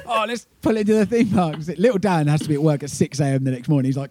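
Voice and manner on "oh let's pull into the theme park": put-on much higher, eager kid voice; childish excitement. Bandmates spot a theme park, high childish excitement. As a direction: sound like a kid begging to stop.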